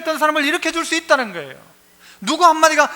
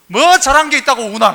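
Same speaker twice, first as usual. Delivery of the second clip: put-on louder scolding snap at a crying child; a mother's mock reprimand, louder; 6 dB louder than usual. Mother scolding her crying child, mock angry. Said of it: "애가 울면 뭐라고 말해요?".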